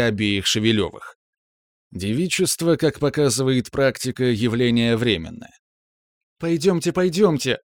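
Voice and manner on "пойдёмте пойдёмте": высоко пропищать, торопя всех; нетерпеливый высокий писк. A narrator's reading. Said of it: "запищала Маша". (пищит, карабкаясь по ступенькам)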